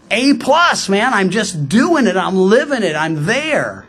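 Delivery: cocky, mildly hammed-up self-praise; smug. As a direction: give yourself top marks. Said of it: "would smugly look at the law".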